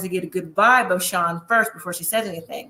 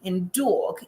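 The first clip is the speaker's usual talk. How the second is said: attempted New York Italian accent, drawn out slowly; imitated New York Italian-American pronunciation; 4 semitones lower, 4 dB quieter, slower than usual. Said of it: "in her New York Italian accent".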